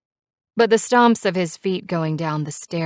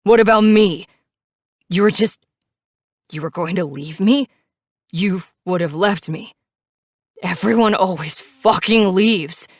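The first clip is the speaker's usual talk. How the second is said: screaming at the top of his lungs; 3 semitones higher, 7 dB louder than usual. A narrator's reading. Knives screaming at Mary that everyone leaves, loud. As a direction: scream out the abandonment. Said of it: "He continues to scream at the top of his lungs".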